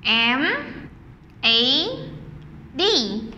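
letters said one by one with pauses; slow letter-by-letter spelling; spelling aloud. Shown as a demonstration. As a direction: spell out M, A, D for the class. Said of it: "Spell together".

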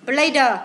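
"Player" drawn out as play plus a voiced "duh". Shown as a demonstration. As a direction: say "Player" slowly as "play-đờ", with a sounded d. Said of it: "con đọc là player".

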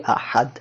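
আহাদ with an ordinary Bangla দ; Bangla-style pronunciation. Shown as a demonstration. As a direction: say আহাদ the Bengali way, tongue released on a plain দ. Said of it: "আমরা বলি". (বাংলা ধাঁচে সাধারণ দ দিয়ে আহাদ)

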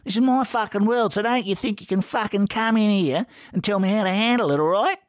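high-pitched territorial tirade; loud, angry rant. A narrator's reading. Ferret warns Horatio off his pub, loudly ranting. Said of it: "Ferret said loudly".

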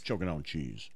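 very low, quiet, dropped way down; deep voice. Pretend. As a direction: rumble it low and soft. Deep chant again.

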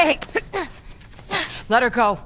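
loud, high command; urgent shout. Acted. Marlene ordering Joel off Ellie, shouting urgently. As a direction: bark it to stop the fight.

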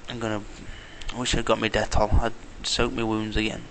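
ordinary talk, nothing marked

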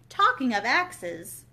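slow, loud and ominous; the Duchess turning on Alice; menacing Duchess. A narrator's reading. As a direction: draw out the threat.

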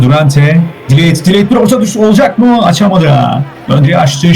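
football commentator's running call; steady, projected sports commentary; live play-by-play. Real, not acted. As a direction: call the match as it unfolds.

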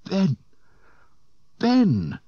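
very high, loud desperate cries; high loud shouts of a name; calling out. A narrator's reading. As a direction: call after a fading ghost. Luke calls out to ghost.

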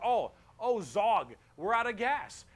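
orc underling. Acted. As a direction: play a dim orc raising a problem. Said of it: "some orc behind you like".

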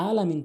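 "আলামিন" with plain opening a; common mispronunciation. Shown as a demonstration. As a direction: leave the ain out of "আলামিন". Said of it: "বলা যাবে না".

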